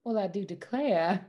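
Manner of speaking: put-on sweet Southern belle accent. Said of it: "a Southern belle?".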